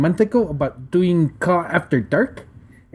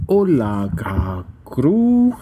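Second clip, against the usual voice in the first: Spanish greeting; much slower than usual. Shown as a demonstration. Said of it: "Do you like how I roll my R's".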